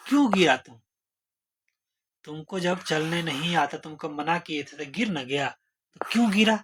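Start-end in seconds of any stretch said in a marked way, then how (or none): 0.1-0.8 scolding. Pretend. Scolding someone who fell. 6.0-6.6 scolding. Pretend. Scolding someone who fell.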